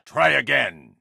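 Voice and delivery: menacing bark. Acted. Interrogating a thug.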